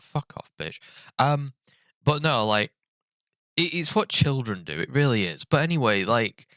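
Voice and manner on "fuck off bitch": hushed unvoiced jokey insult; whispered insult. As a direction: breathe it out as a playful whisper. Voicing cross-looking screenshot.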